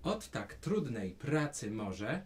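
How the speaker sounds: slow, spaced-out model phrase; line to repeat. Shown as a demonstration. Teacher feeds the child song words, slowly. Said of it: "Powtarzaj za mną".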